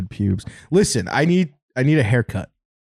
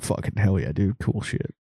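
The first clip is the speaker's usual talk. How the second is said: pretend group approval; 3 semitones lower, 7 dB quieter than usual. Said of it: "We could just all be like".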